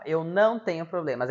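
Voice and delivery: mildly emphatic mock denial; lightly put-on insistence; mimicked denial. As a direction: imitate someone protesting too much. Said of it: "o que que é esse movimento aqui".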